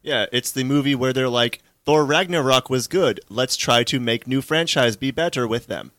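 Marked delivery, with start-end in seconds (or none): 1.8-5.9 lightly robotic mock pitch; hint of a robot reciting a plan. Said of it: "With that exact robot voice".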